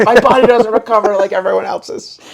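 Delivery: mock dramatic, high and laughing; dramatic despair. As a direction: ham up the woe, laughing. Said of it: "I'm all dramatic and, like, depressed".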